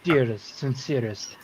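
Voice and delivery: lightly voiced courtly king; Rat King. King apologizing to a child, courtly character voice. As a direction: offer a formal, sincere apology. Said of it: "I forgot my Rat King voice".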